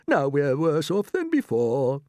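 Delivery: put-on dismayed old grasshopper. Grasshopper sees no way out, dismayed.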